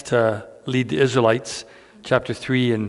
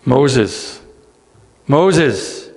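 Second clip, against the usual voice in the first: calling out; 3 semitones higher, 6 dB louder than usual. Acted. God calls Moses from the bush, ringing out. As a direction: call his name across a distance.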